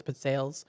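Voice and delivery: "pizzelles" said as pit-SAYLS; grandma's pronunciation. Retold or imitated. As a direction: give "pizzelles" a long AY in the second syllable: pit-SAYLS. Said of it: "She always pronounced it that way".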